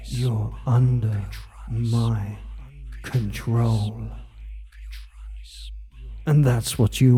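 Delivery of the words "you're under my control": soft, low, fading voice; soft fading murmur. Acted. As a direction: murmur it, softer to the end. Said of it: "and whisper into your ear".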